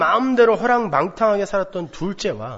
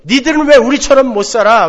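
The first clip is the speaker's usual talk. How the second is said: raised, higher voice hitting 왜; indignant rebuke; 6 semitones higher, 8 dB louder than usual. Retold or imitated. Elder brother scolding others, indignant raised rebuke. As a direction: scold them from above. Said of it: "그러면서 막 때리잖아요".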